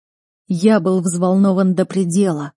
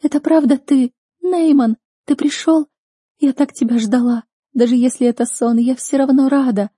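put-on high, louder girl's voice, disbelieving joy; young girl, tearful; 6 semitones higher, 4 dB louder than usual. A narrator's reading. Rescued sister speaks to her brother, high tearful voice. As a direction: she can hardly believe he came.

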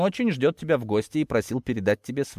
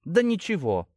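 higher-pitched, offhand denial; dismissive snort; 7 semitones higher than usual. A narrator's reading. Daughter answering her stern father, dismissive. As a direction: brush the question off. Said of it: "фыркнула девушка".

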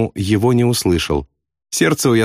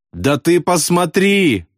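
slow, high, groaning plea; moaning plea; 8 semitones higher, slower than usual. A narrator's reading. Wounded man moans at friend to look, slowly. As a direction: moan it out in pain. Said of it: "простонал Ясариан".

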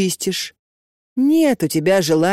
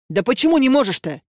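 higher, indignant exclamation; exclaiming; 6 semitones higher, faster than usual. A narrator's reading. Marusya exclaiming at Katya's refusal. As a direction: throw the question up in disbelief. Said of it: "воскликнула Маруся".

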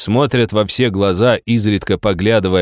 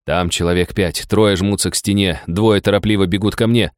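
ordinary delivery

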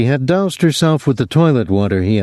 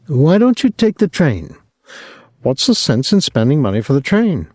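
higher, fretful mother voice; anxious mother pleading; worried old mother; 5 semitones higher than usual. Acted. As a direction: nag him about the reckless driver. Mother worried about son's driving.

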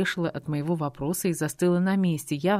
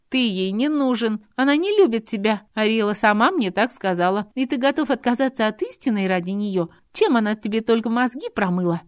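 put-on higher, louder taunting young woman; Adelaide scornful; 7 semitones higher, 6 dB louder than usual. A narrator's reading. Adelaide taunting Robert, scornful. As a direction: needle him with contempt.

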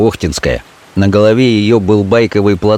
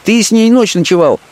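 high scornful woman's voice; a street girl scoffing at the threat; Fenka contemptuous; 11 semitones higher than usual. Acted. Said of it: "окончила она с презрением".

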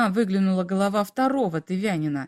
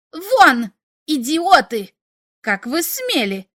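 high, loud furious yelling; furious shout; 5 semitones higher, 6 dB louder, slower than usual. A narrator's reading. Klix yells at the aliens who asked for Igor's body, furious. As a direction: bark them out of the garden. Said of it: "в бешенстве затопал ногами".

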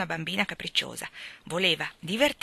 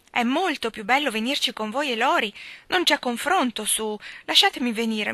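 pleading, higher and a bit louder; touching, persuasive; 6 semitones higher, 3 dB louder than usual. Acted. Amy pleading with Meg to let her come. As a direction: beg sweetly so they can't say no. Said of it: "nel tono più commovente e persuasivo".

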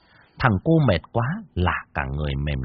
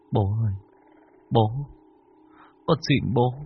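murmured prayer rising to a higher plea; pleading prayer; 6 semitones higher than usual. Acted. Anh Lập prays to his dead father to leave them alone. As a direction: beg your dead father at the altar.

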